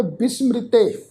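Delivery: ਬਿਸਮ੍ਰਿਤੇ as bis-mri-te; correct pronunciation. Shown as a demonstration. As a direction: run m and r together in ਬਿਸਮ੍ਰਿਤੇ. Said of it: "ਇਸ ਦਾ ਉਚਾਰਨ ਕਰਾਂਗੇ".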